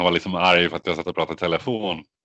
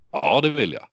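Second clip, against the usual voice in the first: higher-pitched, helpless agreement; reluctant yes; 6 semitones higher than usual. Retold or imitated. Imitating himself answering a telemarketer, meekly agreeing. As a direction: imitate giving in to a salesman. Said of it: "Vad fan ska man säga".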